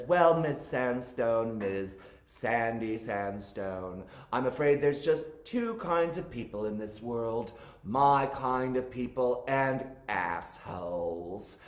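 lightly acted camp movie condescension; Mink Stole impersonation. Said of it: "Mink is interviewing Sandy Sandstone".

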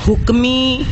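ਹੁਕਮੀ with a nasal final "ee"; nasalised ਹੁਕਮੀ. Shown as a demonstration. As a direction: nasalise the end of ਹੁਕਮੀ, "hukmeen". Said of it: "ਬਿੰਦੀ ਲਗਾ ਕੇ ਹੁਕਮੀ". (ਹੁਕਮੀ ਨੂੰ ਬਿੰਦੀ ਲਾ ਕੇ ਬੋਲੋ)

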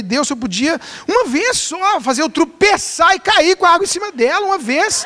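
high, pleading mock prayer. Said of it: "eu orei e falei".

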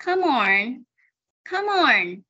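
"Come on" with the m joined onto "on"; linked pronunciation. Shown as a demonstration. Teacher modelling for class to repeat, linked sounds. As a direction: link "Come on" into "kuh-mon". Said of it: "thì nối âm đi nào".

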